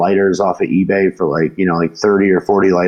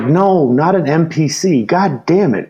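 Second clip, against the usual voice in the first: higher-pitched, drawn-out mock exasperation; exasperated retort; 7 semitones higher, slower than usual. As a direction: play being fed up with a clueless passenger. Exasperated retort in retold skit.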